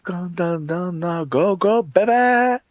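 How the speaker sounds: excited cheering. Real, not acted. Player cheering his character on, building excitement. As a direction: urge the game on, building.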